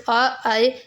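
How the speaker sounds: slow "आ", then glide it into "आए"; diphthong demo. Shown as a demonstration. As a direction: stretch "आ" and "आए" to show one gliding syllable. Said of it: "एक syllable के तौर पे". ("आ, आए" धीरे खींचकर, एक सिलेबल का डिफ्थांग)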